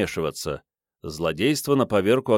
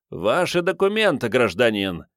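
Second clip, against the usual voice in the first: theatrical command; 2 semitones higher than usual. Acted. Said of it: "Вышло театрально".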